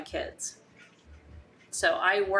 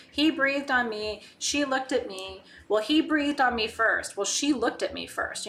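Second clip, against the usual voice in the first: put-on bickering kids; 4 semitones higher than usual.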